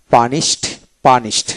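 পানিশড ending in a "t" sound, "pa-nist". Shown as a demonstration. Teacher showing learners the ed ending: পানিশড said with "t". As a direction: turn the final ড of পানিশড into ট. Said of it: "ট উচ্চারিত হবে ইডিতে ট".

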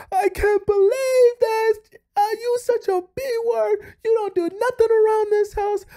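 mock freak-out. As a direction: imitate a boyfriend exploding over the dishes. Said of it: "he freaks out and he goes".

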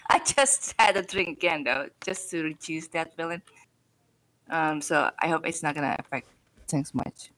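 rough, just-woke-up voice; husky morning voice; hoarse voice. Real, not acted. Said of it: "quote-unquote sexy course voice".

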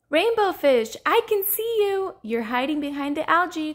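high, loud gleeful call; excited cry. Acted. Little Blue spotting Rainbow Fish, excited cry. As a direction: sing out the discovery. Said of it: "cried Little Blue".

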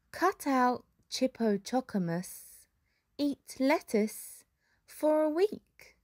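slow, sneering snake voice; a scornful snake dragging out each word; hissing snake. A narrator's reading. Snake sneers at the others, slow hissing snake. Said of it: "hissed Snake".

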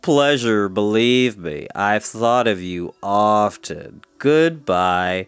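low, slow, insincere politeness; doleful, dragging low voice; mumbling, mournful creature. A narrator's reading. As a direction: drawl your goodbyes low, eager to be gone. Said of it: "he mumbled".

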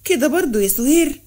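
mild shocked reproach with a rising end; hurt disbelief at her daughter, understated; a touch of stunned reproach. Acted. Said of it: "ردت عزيزة بصدمة".

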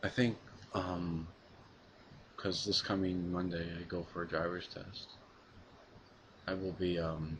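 flat, monotone, emotionless delivery; emotionless robot. Real, not acted. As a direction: drone it out like a robot. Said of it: "why the hell does my voice sound so monotone right now".

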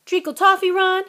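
fast, teasing gruff giant; a hint of a big gamekeeper; Hagrid voice. Hagrid's voice in the story.

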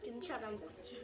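talking through a hot mouthful; words round hot noodles; mouth full of hot food. Real, not acted. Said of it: "아, 뜨거워!".

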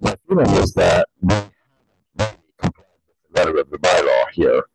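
muffled behind a face mask; words muffled by a mask; talking through a mask. Real, not acted. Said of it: "I'm talking now through a, a mask".

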